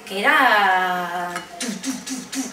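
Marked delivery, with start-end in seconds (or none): 1.6-2.1 imitated missiles. Speaker describing opinions coming like missiles, imitated missile sounds. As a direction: imitate missiles with repeated syllables. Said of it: "como misiles".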